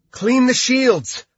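slow, loud, high order. A narrator's reading. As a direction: command the support team firmly. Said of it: "Lucy ordered".

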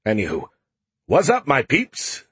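high, slow, breezy AI voice; Skippy calling out. Acted. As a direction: call out cheerfully. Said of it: "Skippy called out".

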